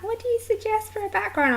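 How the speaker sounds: high questioning voice; asking voice. Retold or imitated. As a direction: ask like an eager customer. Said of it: "they're like".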